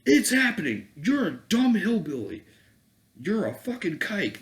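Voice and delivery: high, loud mock accuser; mocking their insults. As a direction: sneer the insults in a put-on high voice. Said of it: "they'll be like".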